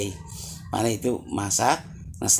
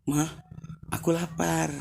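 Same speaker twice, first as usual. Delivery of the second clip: put-on whining child; 5 semitones higher, 4 dB quieter than usual. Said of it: "merengek, nangis".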